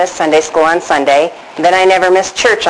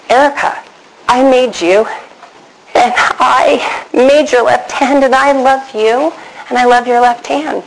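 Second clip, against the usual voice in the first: higher, measured divine reassurance; voice of God; 5 semitones higher than usual. Retold or imitated. God reassuring a left-handed five-year-old, voice of God. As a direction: speak as God, lifted and deliberate. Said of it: "the voice said to me".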